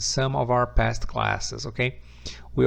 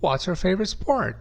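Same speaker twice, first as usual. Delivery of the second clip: "What's your favorite sport?" with a high start and a falling end; a falling information question; model question; 6 semitones higher than usual. Shown as a demonstration. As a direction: present the wh-question with a clear fall. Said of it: "the question will be".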